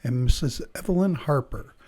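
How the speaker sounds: clear, measured test-recording narration; exam announcer read. Acted. Announcer introducing the listening test to candidates, measured formal read. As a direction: set up the listening task neutrally and evenly.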